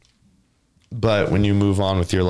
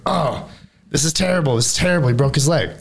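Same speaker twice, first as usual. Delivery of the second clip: higher, fretting "this is terrible"; mock townsfolk dismay; 6 semitones higher than usual. Storyteller voicing villagers over broken leg, mock dismay.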